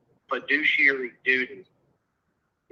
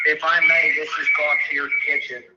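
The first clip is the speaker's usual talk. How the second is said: mic feedback whine; 6 dB louder than usual. Real, not acted. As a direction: voice over squealing speakerphone feedback. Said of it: "I'm so sorry about all the feedback".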